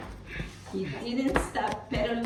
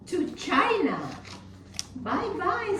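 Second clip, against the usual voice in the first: excited shout; 10 semitones higher than usual. Acted. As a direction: shout it out with glee. Rabbit sends underwear away.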